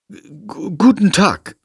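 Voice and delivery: stammering, taken aback hello; girl flustered greeting a talking bat. Acted. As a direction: stumble over the greeting. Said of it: "begrüßt Lilly die Fledermaus verdattert".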